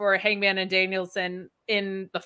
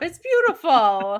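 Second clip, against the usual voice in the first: laughing; 4 semitones higher, 3 dB louder, slower than usual. Real, not acted. Teasing reassurance with laugh.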